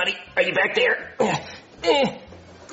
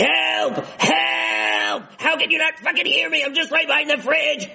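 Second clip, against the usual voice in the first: shouting for help; 4 semitones higher than usual. Acted. Stuck, nobody hears.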